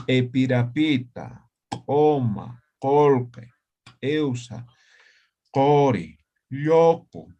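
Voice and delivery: each Aymara word spoken slowly and clearly, one by one; reading a word list aloud. Shown as a demonstration. Teacher reading Aymara words aloud for class practice, slow and clear. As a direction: read the list carefully so the class can repeat.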